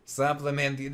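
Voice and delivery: weirdo spoof voice. Acted. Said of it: "This is the voice of the weirdo".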